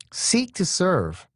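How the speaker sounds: whispered life lesson. Real, not acted. Preacher giving listeners the key lesson, whispered. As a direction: hush it like a secret.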